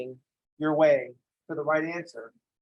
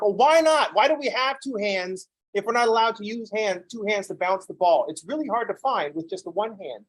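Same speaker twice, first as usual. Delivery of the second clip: mock indignant; 4 semitones higher than usual. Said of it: "I'm like".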